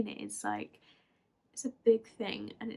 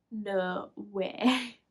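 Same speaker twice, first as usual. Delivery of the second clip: retold disbelief. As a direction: imitate mum's understated disbelief. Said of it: "In that tone".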